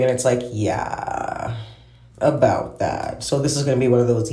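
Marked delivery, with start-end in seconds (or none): 0.5-3.2 hesitant, trailing off; slow, uneasy dodge; awkward. Retold or imitated. Awkward reply about a failed date.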